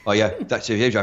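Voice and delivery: lightly put-on Scottish shop lady; friendly Scottish till lady, a light imitation; mock Scottish accent. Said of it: "it was just a thick Scottish accent".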